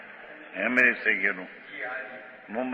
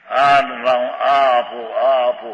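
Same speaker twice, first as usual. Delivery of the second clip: louder, pleading beggar's demands; imitating a beggar; 4 dB louder, slower than usual. Preacher mocks a rich man as a beggar, loud begging demands. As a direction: beg for things like a needy beggar. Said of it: "ભિખારી".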